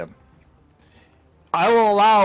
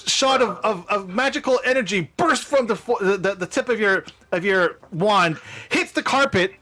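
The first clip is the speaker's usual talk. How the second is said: higher, suspenseful reveal of magic; dramatic game-master narration; 4 semitones higher than usual. Pretend. Game master revealing the wand's effect to players, dramatic narration. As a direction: build the spell's effect with relish.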